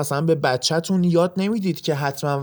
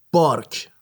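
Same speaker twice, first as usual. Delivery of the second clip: dog bark; 3 semitones lower, slower than usual. Shown as a demonstration. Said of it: "صدای واق واق کردن سگ".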